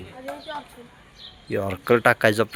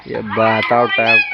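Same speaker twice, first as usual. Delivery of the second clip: calling out; 7 dB louder than usual. Real, not acted. Calling a wicket.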